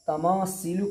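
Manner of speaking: तमासीलु said with plain s; wrong seen sound. Shown as a demonstration. Teacher giving the faulty example, s for th. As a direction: make सी in तमासीलु a clear "see". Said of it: "ये गलत है".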